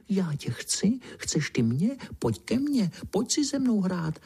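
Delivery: high, sly, coaxing ghost call; wheedling spooky whisper; sly luring voice. A narrator's reading. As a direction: lure the passer-by sweetly. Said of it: "volá úlisným hlasem".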